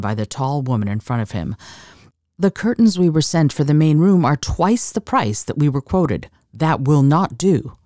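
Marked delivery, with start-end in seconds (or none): 2.4-7.8 indignant protest. Acted. Accountant protesting an overcharge.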